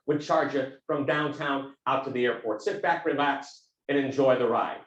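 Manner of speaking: low Texan cab driver impression; deep Texan voice. Cab driver settling a passenger in, in a low Texan voice. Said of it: "I won't get as low as he can go".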